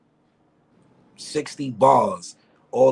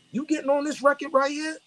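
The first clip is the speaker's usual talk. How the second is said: higher mock boss voice; imitating the boss. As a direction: ask it like the boss testing him. Boss asking the rapper.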